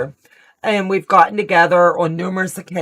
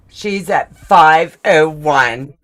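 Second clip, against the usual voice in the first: louder, slow, thrilled reveal of the number; excited announcement; 6 dB louder, slower than usual. Real, not acted. Host telling the live chat about the milestone, thrilled and slow. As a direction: savor each digit with real excitement.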